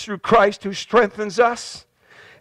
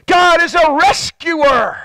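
preaching declaration; 5 semitones higher, 3 dB louder, slower than usual. Acted. Preaching climax.

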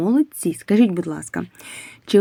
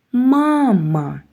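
мама said higher, announced as the answer; bright reveal; 5 semitones higher than usual. Shown as a demonstration. Teacher reveals the answer of the word sum. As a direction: lift on мама like a result. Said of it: "answer of the sum".

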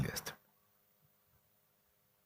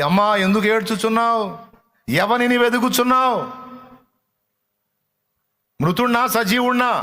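higher, louder gentle questioning; lightly voiced Jesus; 8 semitones higher, 4 dB louder than usual. Jesus asks weeping Mary, lightly voiced and raised. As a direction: ask her kindly, lifting up.

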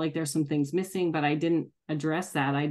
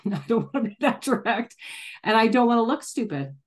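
higher, laughing, mock-whiny "I don't want to be that direct"; mock inner voice; 5 semitones higher than usual. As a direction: parody her own timid inner voice, half laughing. Mock inner voice, laughing self-parody.

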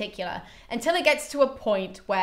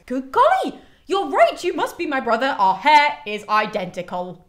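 much higher, bright exclamation settling down; mock delighted; 4 semitones higher, 5 dB louder than usual. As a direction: gush like a cartoon heroine. Elektra voiced, mock delighted.

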